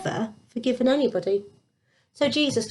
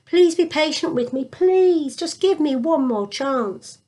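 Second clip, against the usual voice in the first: pleading; 6 semitones higher than usual. Acted. Servant begging the king.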